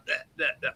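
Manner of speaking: soft, far-off bleh bleh; mock stuttering babble. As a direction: babble like you're tripping over words. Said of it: "I'm just like".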